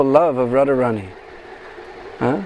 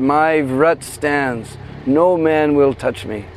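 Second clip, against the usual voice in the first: slow firm vow; 5 semitones lower, slower than usual. Acted. Radharani stubbornly refuses.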